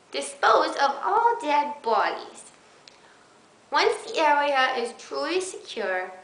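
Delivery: lightly put-on high baby voice reading a zombie manual. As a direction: read survival tips like a little kid. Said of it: "I might just do a baby voice".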